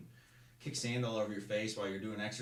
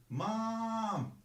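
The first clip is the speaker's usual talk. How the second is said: much higher, louder desperate scream; screaming for mom; 14 semitones higher, 6 dB louder than usual. Retold or imitated. Recruit screaming for his mom on order, desperate. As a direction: scream it toward Arizona. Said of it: "Kid starts screaming".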